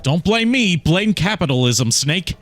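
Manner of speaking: Otacon voice. Acted. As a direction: plead like a nervous sidekick. Otacon voice answering Snake.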